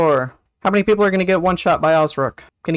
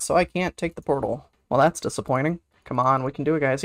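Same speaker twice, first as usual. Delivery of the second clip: ordinary talk, nothing marked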